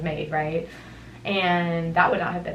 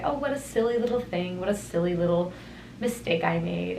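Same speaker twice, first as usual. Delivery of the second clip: light joyful. Pretend. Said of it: "make it a joyful thing".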